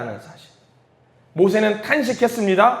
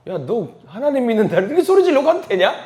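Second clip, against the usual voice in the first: higher-pitched incredulous needling; taunting friend; 6 semitones higher than usual. Acted. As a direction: question him like a teasing friend. Voices friend teasing his scream. (친구가 놀리듯 따져 묻는 말투)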